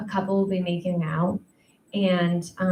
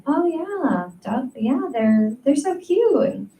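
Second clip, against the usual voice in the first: mock eager; 5 semitones higher, slower than usual. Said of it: "I was like".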